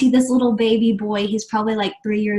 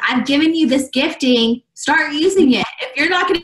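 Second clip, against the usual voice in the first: voicing God's nudge; 4 semitones higher than usual. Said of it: "I felt like God was saying".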